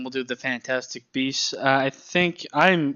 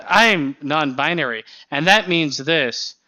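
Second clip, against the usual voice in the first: lightly hammed-up, louder scripted explaining; mock explanation; 2 semitones higher, 4 dB louder than usual. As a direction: mimic a heavy-handed cartoon line. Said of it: "the way that it's presented".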